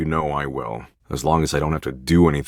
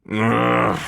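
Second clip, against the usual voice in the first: exasperated groan; 5 semitones higher than usual. Acted. Reluctantly gives in, exasperated.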